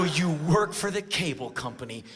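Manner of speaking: mock-incredulous repeat of the claim; sceptical echo. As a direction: question the feeble lie. Acted sceptical echo of excuse.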